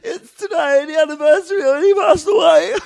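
very high, blubbering mock sobs; hammed-up crying. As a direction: squeal it through exaggerated tears. Retold sobbing to partner.

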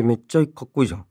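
usual speaking voice

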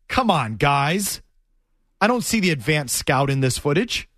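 lightly mocking retold challenge, low-pitched. Bengals guy confronting the Patriots film crew, lightly mocking. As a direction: imitate a disbelieving rebuke, slowing at first. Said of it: "the Bengals guy mockingly says".

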